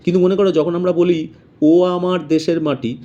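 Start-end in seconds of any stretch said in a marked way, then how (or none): 1.6-3.0 opening "ও" held as a full, separate vowel; slow line, giving "ও" its whole sound. Shown as a demonstration. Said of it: "ওটা হচ্ছে পূর্ণ উচ্চারণ হচ্ছে". ("ও" পূর্ণ স্বরে টেনে উচ্চারণ)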